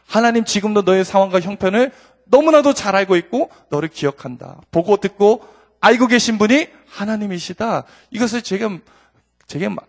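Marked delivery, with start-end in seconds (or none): 0.1-7.8 loud, high proclamation of faith; mother's words preached with conviction; forceful preaching. Acted. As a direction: declare it as a bold promise. Voicing mother's faith message.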